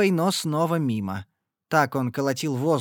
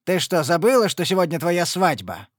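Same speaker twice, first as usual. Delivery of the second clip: louder scolding; angry father; 4 semitones higher, 5 dB louder than usual. Acted. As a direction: scold her for forgetting. (отец сердито отчитывает дочь)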